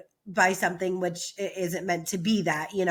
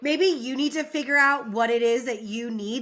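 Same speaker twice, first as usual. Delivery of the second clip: higher-pitched, mock-indignant telling-off; indignant quarrel; 4 semitones higher than usual. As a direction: imitate a partner laying down the law. Acted retelling of a couple's quarrel.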